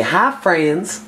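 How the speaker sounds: lilting celebrity-cook greeting, lightly imitated; light impression of a TV cook's hello; Paula Deen. Showing the others how to greet like a TV cook, light impression. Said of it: "you gotta be like Paula Deen".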